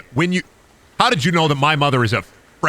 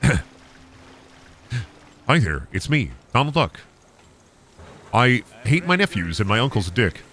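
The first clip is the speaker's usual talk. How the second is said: Donald Duck. Pretend. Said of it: "You wanna hear my Donald Duck impression?".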